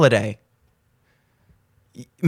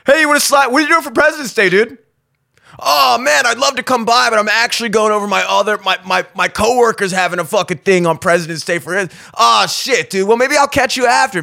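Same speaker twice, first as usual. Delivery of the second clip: mock bro chat. Acted bro conversation.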